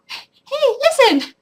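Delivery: high, loud "hey, listen"; playful mock hail; mock call to a crowd. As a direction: call out like a camp leader. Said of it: "I don't do that".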